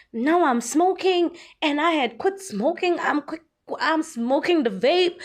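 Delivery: upset YouTuber. Retold or imitated. Vlogger imitating a YouTuber's stressed rant. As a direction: act out her complaining. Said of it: "She's like".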